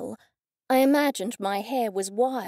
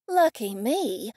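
sarcastic mutter; slower than usual. Acted. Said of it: "I muttered sarcastically".

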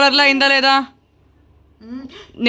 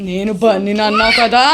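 probing ghost; 2 semitones lower than usual. Pretend. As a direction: stretch the last word questioningly. First take of ghost's question.

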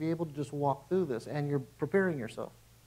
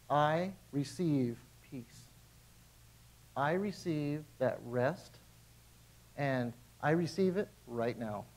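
calm prayer; 5 dB quieter, slower than usual. Retold or imitated. Prayer after the shout.

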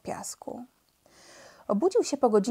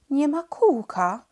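sudden alarmed shout, higher and louder, slow; sudden cry; 7 semitones higher, 5 dB louder, slower than usual. A narrator's reading. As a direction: blurt it out in shock, slowly. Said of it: "krzyknął nagle".

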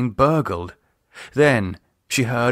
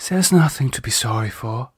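soothing. Acted. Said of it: "she soothed him".

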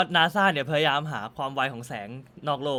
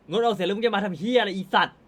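mock cursing out. Retelling the clip of a woman cursing the MP, mock-furious. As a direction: hurl the insult like the woman in the clip, half-hammed. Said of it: "ผู้หญิงด่า".

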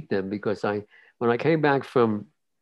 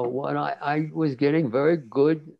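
ordinary talk, nothing marked

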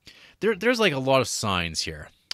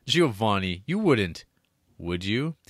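mock nervous Mary. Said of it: "Mary Forbes nervously laughs".

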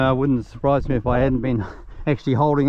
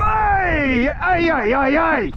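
very high, sharp hey's thrown across the field; high sharp calls; much slower than usual. Real, not acted. Owner calling off his dog mid-chase with high sharp hey's.

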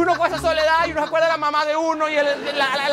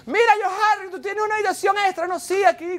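lightly voiced, higher-pitched cousin on the phone; cousin from back home; 6 semitones higher than usual. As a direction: pitch it up as a cousin angling for a favor. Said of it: "te llama un primo de tu país y te dice".

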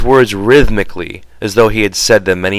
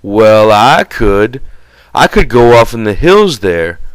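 put-on childlike Lennie, a little raised and sulky; lightly voiced Lennie, pouting and stubborn; a hint of a big simple man sulking; 4 dB louder than usual. Lennie insists he could.

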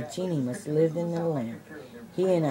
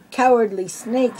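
higher, louder hissing shout; 6 semitones higher, 6 dB louder than usual. A narrator's reading. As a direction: spit "Cowardly snake" back with a snake-like hiss. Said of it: "shouted Jafar with a loud hiss".

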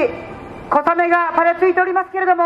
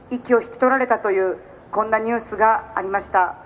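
lower, grave condolence tone; solemn; 3 semitones lower than usual. Real, not acted. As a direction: speak gravely and subdued. Turns to the shooting, condolences.

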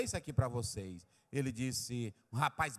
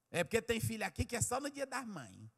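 normal talking voice

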